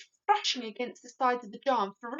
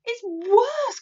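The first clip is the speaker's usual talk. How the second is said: high loud insistence; loud cry; 12 semitones higher, 11 dB louder than usual. A narrator's reading. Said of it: "cried the BFG".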